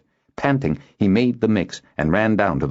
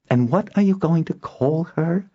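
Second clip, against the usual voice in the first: high-pitched, impatient question; 12 semitones higher than usual. A narrator's reading. Noella presses Kindon for a name, impatiently. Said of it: "Noella asked impatiently".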